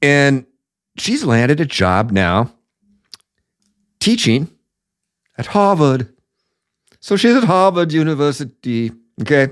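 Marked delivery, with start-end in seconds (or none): 4.0-9.5 bad put-on posh accent, half Scottish. Discussing the former Chicago mayor's new Harvard job, the speaker slips into a put-on rich accent. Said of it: "Was that Scottish or was that a rich accent?".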